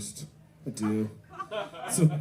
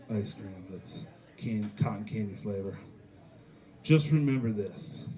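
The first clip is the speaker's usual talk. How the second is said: mock tender pep talk; 4 semitones lower than usual. Comedian crouching to crying kid, mock soothing. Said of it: "get down, eye level with the child".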